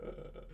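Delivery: mock wordless crying sound; half-crying vocal noise, imitated; imitated crying moan. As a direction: re-enact a kind of crying "uh". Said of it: "like, kinda crying and going".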